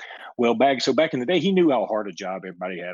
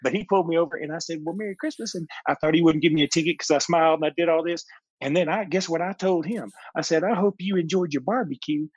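proud mom; 6 semitones higher than usual. Retold or imitated. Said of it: "she goes".

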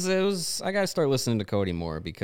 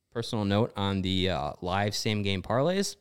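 ordinary talk, nothing marked

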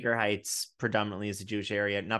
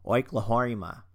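Oklahoma in a bad Australian accent, stretched slowly; 2 semitones higher, 5 dB louder than usual. Shown as a demonstration. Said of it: "say it in an Australian accent".

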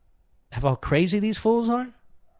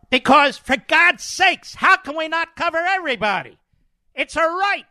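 sarcastic; 11 semitones higher, 5 dB louder than usual. Retold or imitated. Mocking the Democrats' reasoning.

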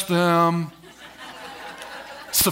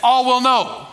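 call and response; 3 semitones higher, slower than usual. Shown as a demonstration. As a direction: call it out for the church to echo. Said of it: "Everybody say".

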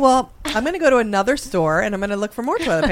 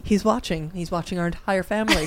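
soft mock mom; 2 semitones lower, 6 dB quieter than usual. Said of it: "then the mom is like".

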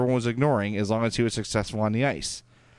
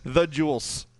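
Chicago accent; 4 semitones higher, slower than usual. Shown as a demonstration. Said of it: "add S's to everything".

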